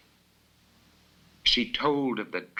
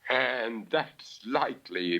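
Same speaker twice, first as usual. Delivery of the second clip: muttered; 3 semitones higher than usual. Acted. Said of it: "Bella muttered".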